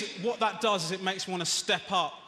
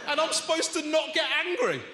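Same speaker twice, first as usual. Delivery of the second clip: exasperated shout; 9 semitones higher than usual. Acted. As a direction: blurt it out fed up. Repeats line, first shouted.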